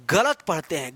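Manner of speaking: गलत said low and heavy; गलत dropped low with weight; stress on wrong. Shown as a demonstration. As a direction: lean down hard on गलत. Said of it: "गलत तरीके से पढ़ते हैं".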